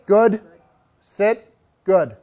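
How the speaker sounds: even, gentle praise; calm, consoling. Shown as a demonstration. Trainer praising a sitting dog, calm and consoling. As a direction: reassure without exciting the dog. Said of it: "It's calm, it's consoling".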